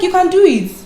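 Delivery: high encouraging voice. Retold or imitated. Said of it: "she's like".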